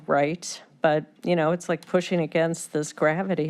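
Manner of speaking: choked up, straining to get words out. Real, not acted. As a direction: voice tight with emotion, holding back tears. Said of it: "I'm sorry I'm choked up".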